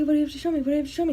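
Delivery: imitating grandma, high, loud and eager; impatient excitement. Grandma grabbing granddaughter's hands to be shown something, impatient.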